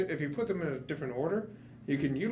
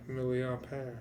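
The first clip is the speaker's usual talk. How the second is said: milliampere with a light mock French accent, ending on an open "pæ"; lightly mock French milliampere; 2 semitones lower, 5 dB quieter, slower than usual. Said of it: "that stupid French accent".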